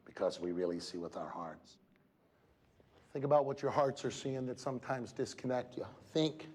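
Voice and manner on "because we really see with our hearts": Helen Keller's words, softly. Retold or imitated. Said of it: "And she said".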